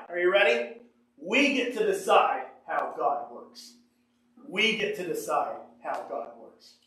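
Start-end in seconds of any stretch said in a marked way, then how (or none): 1.2-3.8 voicing the Pharisees' lie. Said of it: "Here's their lie". 4.5-6.8 hushed echo of the lie. Retold or imitated. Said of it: "Here's their lie".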